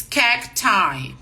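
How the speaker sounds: cacti said KAK-tie. Shown as a demonstration. Teacher giving the irregular plural cacti. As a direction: end cacti on a long eye sound. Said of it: "O plural do cactus é cacti".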